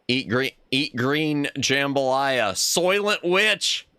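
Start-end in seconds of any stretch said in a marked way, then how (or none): 2.5-3.9 slow dramatic. Acted. Movie quote joke.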